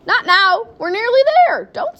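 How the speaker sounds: high, loud pleading; urgent protest. A narrator's reading. Wonka begs the queasy mother to wait, urgent protest.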